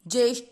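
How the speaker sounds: ज्येष्ठ with a hard hit on the ठ; ज्येष्ठ, ठ struck firmly; stress on ठ. Shown as a demonstration. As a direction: punch the final ठ in ज्येष्ठ. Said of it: "ऐसे".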